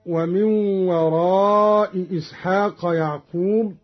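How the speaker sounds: وراء إسحاق with both glottal stops; full hamza. Shown as a demonstration. Teacher quoting the verse first, both hamzas sounded in وراء إسحاق. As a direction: say "waraa'i ishaaq" for وراء إسحاق. Verse before Qalun's reading is shown.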